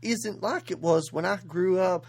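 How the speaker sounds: put-on a light Southern US accent, barely shifted from her own; a hint of a Southern country-star accent, playful; a country singer's Southern accent. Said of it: "Southern accent is".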